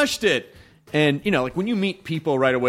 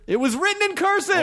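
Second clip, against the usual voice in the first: mock solemn.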